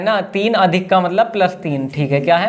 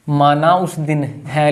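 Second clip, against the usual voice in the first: slow, lower dictating voice; slow dictation; 4 semitones lower, slower than usual. Real, not acted. Teacher tells class to write it down, slow dictation. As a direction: dictate it slowly for note-takers.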